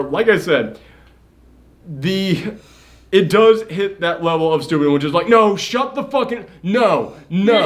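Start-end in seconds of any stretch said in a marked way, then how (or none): 5.3-7.7 higher-pitched, exasperated mock protest; mock exasperation. Viewer to a stupid movie character, exasperated mock protest. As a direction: act out begging a foolish character to stop.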